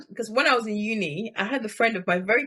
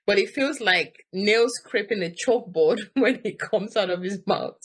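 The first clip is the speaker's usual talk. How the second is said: laughing. Real, not acted. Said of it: "I don't know why this is making me laugh".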